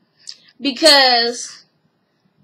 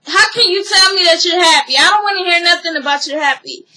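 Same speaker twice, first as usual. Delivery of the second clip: higher-pitched, pushy mock outrage; retold indignation, voice raised in pitch; indignant retelling; 4 semitones higher, 3 dB louder, faster than usual. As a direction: act out an offended ex confronting him. Retells upset ex confronting him.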